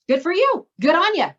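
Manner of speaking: high, loud cheering-on of a good answer; mock cheer. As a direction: cheer them on like a proud fan. Cheering on kids' good reasons.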